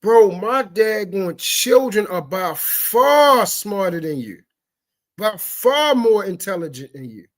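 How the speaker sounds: real outrage at a debate he just watched; disturbed outrage. Real, not acted. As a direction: lay into him with disgust. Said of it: "I am very disturbed".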